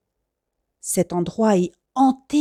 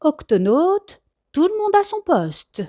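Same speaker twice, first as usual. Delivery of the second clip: calling the crew; 8 semitones higher than usual. Acted. Captain calling crew to stations, rallying call. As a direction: summon everyone to their posts.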